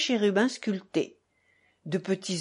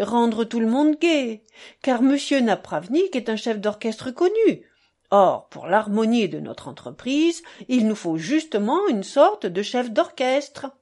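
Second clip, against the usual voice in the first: eager, animated explaining; lightly voiced buffoon; 4 dB louder than usual. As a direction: insist on the joke, with rising emphasis. Buffoon retells his insistent explanation.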